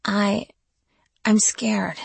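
trembling frightened whisper; scared whisper. A narrator's reading. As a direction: whisper it, terrified.

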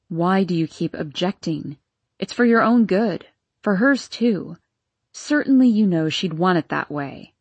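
low, firmer woman's voice; a hint of a stern lover pressing; Vera's voice. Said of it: "she continued in a stronger voice".

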